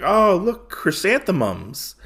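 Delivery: light acted excitement; delighted exclamation. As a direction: brighten up in a retold line of delight. Acted delight, snapping out of sadness.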